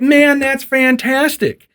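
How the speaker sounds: high, drawn-out mock delight; slow, high-pitched hammed-up praise; acted enthusiasm. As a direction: play the warden hugely impressed, stretching it out. Warden applauds hunter's license.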